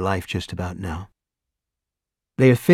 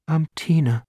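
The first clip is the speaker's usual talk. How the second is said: almost normal; 5 semitones higher than usual. A narrator's reading. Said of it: "tone of voice that's almost normal".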